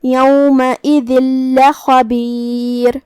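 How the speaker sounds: یومئذ لخبیر with the tanween merged into a doubled ل, very slow; idgham without ghunna. Shown as a demonstration. Teacher models idgham in یومئذ لخبیر. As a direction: run یومئذ into لخبیر, the نون swallowed into ل. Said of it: "تنوین کو لام میں داخل کر کے".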